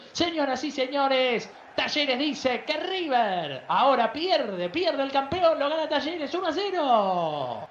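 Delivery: announcer. Real, not acted. Formal announcement of the score.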